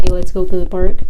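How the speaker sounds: "Let's go to the park" as a plain, firm declaration; firm statement. Shown as a demonstration. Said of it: "saying it as a statement".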